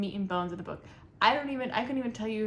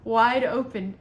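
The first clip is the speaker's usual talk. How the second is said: mock dramatic reading; 5 dB louder than usual. Shown as a demonstration. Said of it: "I shouldn't laugh".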